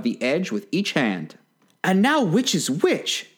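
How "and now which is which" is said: high, slow wondering to herself; a hint of a puzzled little girl, drawn out; lightly voiced Alice. A narrator's reading. Alice puzzling over the mushroom, lightly voiced high wondering. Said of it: "she said to herself".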